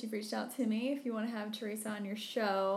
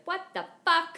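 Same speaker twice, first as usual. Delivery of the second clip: loud, high mock outburst; shocked outburst; 10 semitones higher, 9 dB louder than usual. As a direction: act out dad's baffled yell. Acts out dad's shocked reply.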